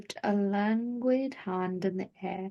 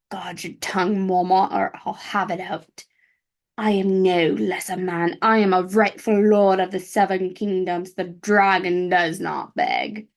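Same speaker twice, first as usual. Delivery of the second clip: angry threat; 3 semitones lower than usual. Acted. Viserys threatening Mormont.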